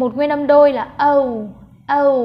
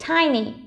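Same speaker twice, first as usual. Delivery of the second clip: "tiny" stressed on "ti", falling on "ny"; first-syllable stress. Shown as a demonstration. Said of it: "trọng âm rơi vào âm đầu tiên".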